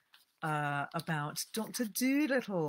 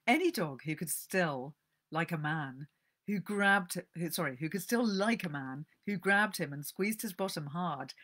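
calm storyteller reading aloud; gentle book-reading voice; story narration. A narrator's reading. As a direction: read it like a cosy tale.

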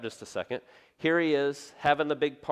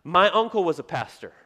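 louder, keen stranger voice; eager acquaintance; 4 semitones higher, 7 dB louder than usual. Retold or imitated. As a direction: someone proudly offering credentials. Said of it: "I hear this".

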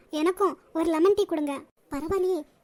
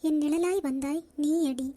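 poem reading; slower than usual. Acted. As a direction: read it slowly, line by line, with pauses. Reads a love poem.

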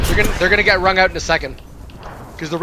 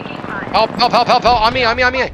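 shouting for help; 6 semitones higher, 6 dB louder than usual. Real, not acted. Calling teammates for help in fight.

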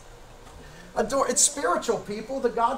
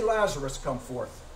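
personal call; 10 semitones lower, 6 dB quieter than usual. Retold or imitated. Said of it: "Why did he say".

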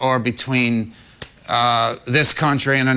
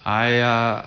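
satellite phone delay; 5 semitones lower, 3 dB quieter than usual. Real, not acted. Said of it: "live via satellite from Los Angeles".

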